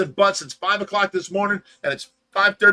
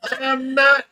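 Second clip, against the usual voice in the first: loud, high-pitched objection; indignant protest; 8 semitones higher, 4 dB louder, slower than usual. Real, not acted. Host objects to being called worn out, indignant. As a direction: protest it, offended and emphatic.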